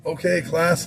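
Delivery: teacher addressing class. Retold or imitated. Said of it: "doing like a karate chops he talked".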